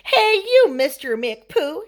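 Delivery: put-on high, loud call to a naughty child; scolding mama. A narrator's reading. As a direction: call him out like a cross mama.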